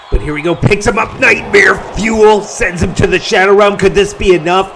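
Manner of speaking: loud, rising ringside call; excited play-by-play. Real, not acted. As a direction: yell the big finish live. Climax of live match commentary.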